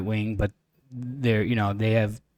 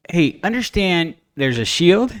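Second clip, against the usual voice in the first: exasperated; 3 semitones higher than usual. Retold or imitated. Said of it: "I'm being polite and saying".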